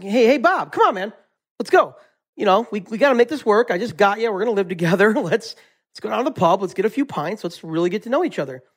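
lightly voiced eager guy begging his pet for a pint; pleading buddy. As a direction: talk him into the pub like a friend who won't take no. Guy pleads with silent caterpillar.

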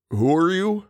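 high, small and breathy; puzzled breathy question. A narrator's reading. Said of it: "in his breathy voice".

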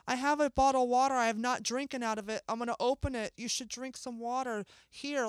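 soft, gentle retold offer; a touch of kindly reassurance; being nice. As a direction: offer help kindly and softly. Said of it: "she was being nice".

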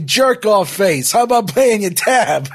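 high, loud mock shout; heckling. Dominic yelling at customer leaving unpaid, heckling shout. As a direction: call after him rudely and loudly. Character yells after customer.

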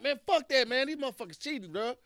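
mock griping about cheaters; mock angry rant. Mad at losing the game.

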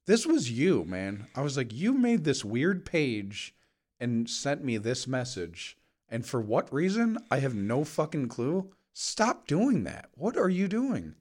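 mock accusing, drawn out; incredulous accusation. Confronting brother, retold accusation.

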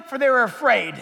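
booming preacher voice; loud proclaiming. Acted. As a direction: proclaim it loudly, full voice. Same words shouted after whisper.

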